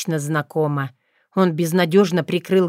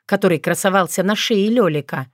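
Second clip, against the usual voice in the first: usual speaking voice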